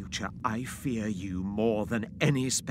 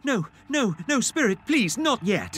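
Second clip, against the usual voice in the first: pleading; 10 semitones higher, 7 dB louder than usual. Acted. Scrooge pleads with the Spirit.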